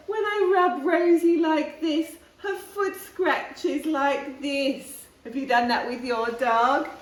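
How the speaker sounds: put-on high, loud little girl showing off her dog; eager girl voice. A narrator's reading. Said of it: "she said".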